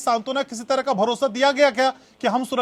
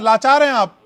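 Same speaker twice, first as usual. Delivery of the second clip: louder jab to finish the accusation; loud taunt; 6 dB louder than usual. Real, not acted. Anchor taunts the opposition spokesman, louder jab. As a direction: punch out the final accusation.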